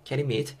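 "can you meet" joined without breaks; linked words. Shown as a demonstration. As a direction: say "can you meet" as one connected unit. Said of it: "붙여서 can you meet". ("can you meet"을 한 덩어리로 이어서)

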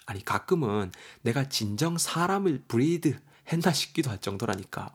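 lightly acted parent grumbling about a messy child; exasperated dialect-speaking mother. Mother complaining to a friend about her kid's room, mild exasperation.

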